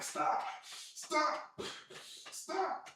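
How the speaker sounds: soft, halting mock plea; hushed reenactment of pleading; retold plea. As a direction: beg quietly with gaps between each word. Retold plea under a lion.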